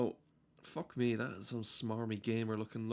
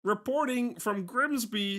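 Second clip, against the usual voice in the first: much higher, slow frog reporter; mock Kermit field report; 10 semitones higher, 5 dB louder than usual. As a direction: sign off like Kermit on the scene. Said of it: "this is Kermit the Frog".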